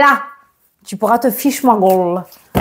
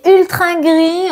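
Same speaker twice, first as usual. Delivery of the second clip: drawn out; 8 semitones higher, much slower than usual. Real, not acted. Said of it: "Il va falloir que je parle comme ça".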